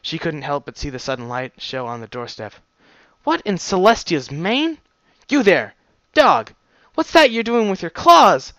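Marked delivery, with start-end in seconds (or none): 3.2-8.5 high, loud shout from up the tower; shouting guard. Acted. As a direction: yell down in alarm. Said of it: "she shouted down at me".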